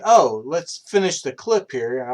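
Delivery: mild mock yell; panicked yell. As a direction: call out in a panic while falling. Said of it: "I'm yelling".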